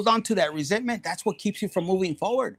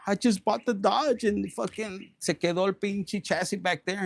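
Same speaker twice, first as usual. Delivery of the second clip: pissed-off rant; 3 semitones higher than usual. Retold or imitated. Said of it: "pissed off, like".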